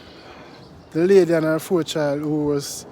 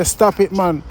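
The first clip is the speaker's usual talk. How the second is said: louder, preaching to stop it; loud anti-crime plea; 2 semitones lower, 6 dB louder than usual. Real, not acted. Vlogger pleading with youths to stop the crime, loud and fervent. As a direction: demand an end to the violence.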